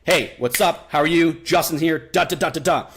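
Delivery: teacher's breaking-rapport tone; confident video host. Shown as a demonstration. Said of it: "I'm like".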